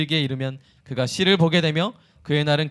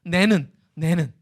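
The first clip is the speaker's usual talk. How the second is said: Gyeongsang dialect; slower than usual. Shown as a demonstration. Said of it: "경상도 말로 하면 내는".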